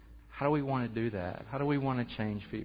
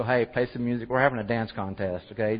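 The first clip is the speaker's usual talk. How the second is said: loud call over the room, louder; calling out to the class; 6 dB louder than usual. Retold or imitated. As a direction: raise your voice to get the kids dancing. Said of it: "I finally had to just go".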